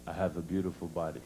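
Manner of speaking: proud wife. Retold or imitated. Wife quoting the doctor.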